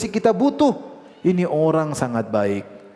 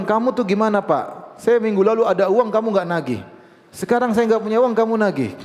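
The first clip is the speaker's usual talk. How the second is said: higher-pitched mock scolding; retold angry complaint; 4 semitones higher than usual. Debtor scolds the friend who came to collect, mildly angry. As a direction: imitate an indignant debtor, mildly cross. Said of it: "Dia malah marah-marah".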